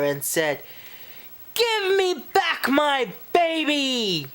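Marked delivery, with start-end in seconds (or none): 1.5-4.3 much higher shouted demand; demanding fish. Acted. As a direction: bellow for your stolen baby.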